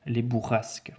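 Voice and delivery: bourrasques with a voiceless S before the K; S as in serpent. Shown as a demonstration. Teacher showing pupils the S in bourrasques, hissed as in serpent. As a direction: say bourrasques with S, not Z. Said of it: "dire S comme serpent".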